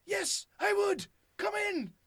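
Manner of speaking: high, loud, slow hammed-up enthusiasm; mock eager welcome. Imitating a sitcom character inviting preachers in, hammed-up eager shout. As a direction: overplay the delight, slowly and loudly.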